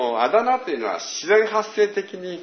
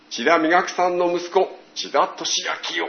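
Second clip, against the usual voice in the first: formal address; 5 semitones higher than usual. Retold or imitated. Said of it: "襟を正されるような、そういう改まった呼びかけ".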